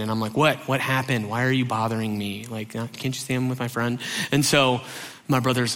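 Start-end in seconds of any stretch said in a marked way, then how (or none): 0.4-4.0 low, soft, irritated brush-off; imitating a bothered big brother; annoyed older brother. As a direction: brush off a pestering younger brother. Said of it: "I'm an older brother".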